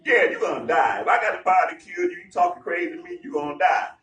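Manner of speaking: loud, fast threatening ruler; mock threat. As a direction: snap a threat back at the prisoner. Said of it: "you would think like".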